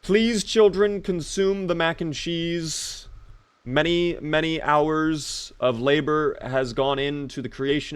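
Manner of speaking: hammed-up formal plea to eat dinner; mock stern parent. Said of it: "Can you tell my kids to eat their damn mac and cheese?".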